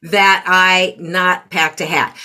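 imitating an irritated daughter, drawn out and deliberate; slow, mock-affronted retort, broken by a pause; palpable irritation. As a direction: act out her offended irritation. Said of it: "the irritation in her voice was so palpable".

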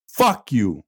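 muttered insult. Pretend. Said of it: "And, and I'll add".

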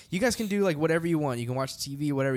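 lightly imitated sweet Southern host; a touch of easygoing Southern hospitality; sweet Southern accent. Host showing the band round the house, lightly sweet Southern accent. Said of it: "in his real sweet Southern accent".

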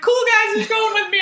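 bright high-pitched call to the group; hopeful high ask. Retold or imitated. Asking her friends for a ride, in a hopeful high voice. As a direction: pitch it up eagerly, asking who rides with her.

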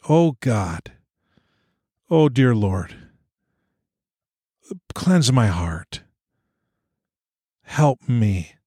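slow plea with long pauses; earnest prayer. Retold or imitated. Religious leader praying over the prophets, slow and pleading. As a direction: pray it slowly, phrase by phrase.

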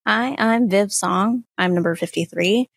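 ordinary delivery

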